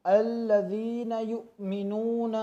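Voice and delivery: युमिनून with a sharp catch on the hamza, slow; jerked hamza. Shown as a demonstration. Teacher showing the sakin hamza jerk. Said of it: "खूब झटका देकर अदा करना है".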